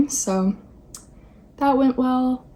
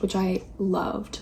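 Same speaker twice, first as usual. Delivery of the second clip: whisper; 6 dB quieter than usual. Real, not acted. Adds a whispered aside.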